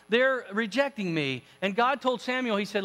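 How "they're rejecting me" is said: lightly voiced grievance at usual pitch; mild complaint. Samuel bringing his rejection to God, mild complaint. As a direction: complain a little, drawing it out.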